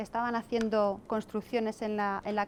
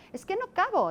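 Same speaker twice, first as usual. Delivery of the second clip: put-on much higher child's voice; imitating a child; 9 semitones higher than usual. Boy in the queue complains, high childish voice. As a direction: squeak it out like a small kid in line. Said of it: "dice uno".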